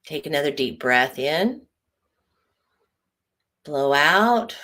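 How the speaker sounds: measured breathing cues with long pauses; guided relaxation voice, leaving room to breathe. Acted. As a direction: lead listeners through a deep breath. Leads closing breathing exercise.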